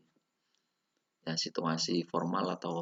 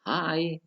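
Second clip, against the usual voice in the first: "hi" held high, then dropping; drilled "hi", falling at the back; falling intonation; 9 semitones higher, 3 dB louder than usual. Shown as a demonstration. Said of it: "nadanya, intonasinya sudah menurun".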